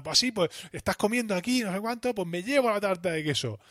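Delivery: high, whiny bickering voice; petty quarrel. Retold or imitated. Quarrel over the cheesecake.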